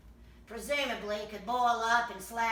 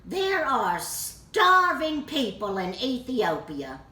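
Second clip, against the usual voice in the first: lightly imitated mother, slow and louder; mock a mother's stock reproach, stretching the words; a hint of a lecturing mom; scolding mother; 3 semitones higher, 6 dB louder, slower than usual. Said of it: "My mother used to say".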